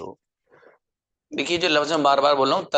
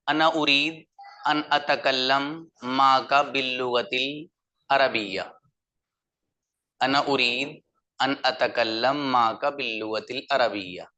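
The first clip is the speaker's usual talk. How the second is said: Arabic read in a flat Urdu accent; flat Urdu-style Arabic; slower than usual. Shown as a demonstration. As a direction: say the Arabic like a plain Urdu speaker, no Arabic flavour. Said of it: "मिजाज के मुताबिक नहीं बोला गया". (उर्दू लहजे में सपाट अरबी)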